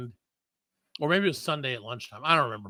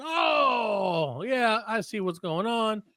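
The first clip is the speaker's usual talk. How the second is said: higher, slow, breezy know-it-all; knowing dentist; 5 semitones higher, much slower than usual. Retold or imitated. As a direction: play the cheerful dentist who's got it figured out. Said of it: "he's like".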